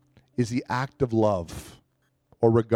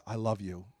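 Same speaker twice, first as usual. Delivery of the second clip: barely-voiced I love you, much softer; soft prayer; 4 semitones lower, 10 dB quieter than usual. Shown as a demonstration. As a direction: breathe it to God. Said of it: "even if it's something like".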